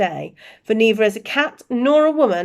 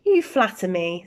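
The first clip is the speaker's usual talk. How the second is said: calm. Acted. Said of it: "said Dumbledore calmly".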